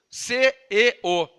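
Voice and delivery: "C E O" letter by letter; spelled out. Shown as a demonstration. Preacher spelling the old Bible word, letter by letter "C E O". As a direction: slowly spell "C E O", stressing each letter apart. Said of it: "Essa Bíblia fala céu".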